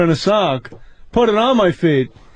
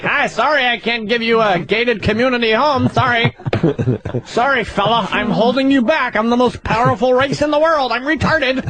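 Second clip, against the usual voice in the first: meek white guy voice; 3 semitones higher than usual. Retold or imitated. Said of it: "Instead of like".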